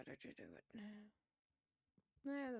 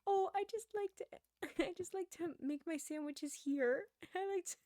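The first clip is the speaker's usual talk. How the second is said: put-on high, loud sweet little old lady; old lady impression; 5 semitones higher, 7 dB louder than usual. Old coworker explains her sandwiches, high old-lady voice. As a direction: imitate an adorable elderly coworker. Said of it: "this is how she talks".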